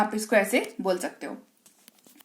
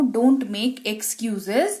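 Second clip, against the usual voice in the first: very slow model phrase; much slower than usual. Shown as a demonstration.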